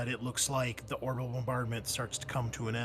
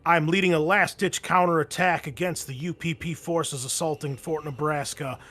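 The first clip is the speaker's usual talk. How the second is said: loud, raised military briefing over comms; Major Hatfield; 6 semitones higher, 10 dB louder than usual. Acted. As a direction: deliver it like an officer radioing a desperate report. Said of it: "this is Major Hatfield".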